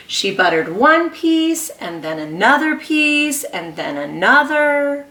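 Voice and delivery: lively picture-book read-aloud; reading to children. Acted. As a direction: read to a class of small kids. Reads picture book to class.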